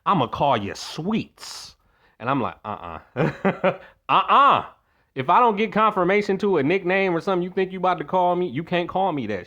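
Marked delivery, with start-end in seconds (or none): 0.1-1.8 slow, drawn-out Sweets; drunk uncle voice. Retold or imitated. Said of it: "That's how he said it". 2.6-4.6 laughing uh-uh, louder; laughing refusal. Real, not acted.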